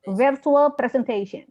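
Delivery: "virtual presentation" slow, falling at the end; no questioning intonation. Shown as a demonstration. Teacher correcting a student's questioning tune, slow falling model. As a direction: state "virtual presentation" slowly, closing downward. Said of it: "Jangan pakai intonasi tanya di ujungnya".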